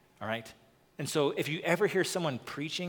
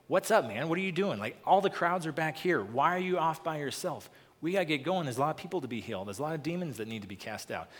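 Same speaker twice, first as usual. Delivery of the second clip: scolding Peter; 3 semitones higher than usual. Retold or imitated. Peter scolding Jesus to come back to the crowds, impatient. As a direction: hurry him along like a frustrated friend. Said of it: "He's, like, scolding Jesus".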